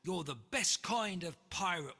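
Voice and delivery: crew roaring. Acted. Crew cheering George after the monster, loud roar. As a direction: roar it in triumph. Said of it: "the crew roared".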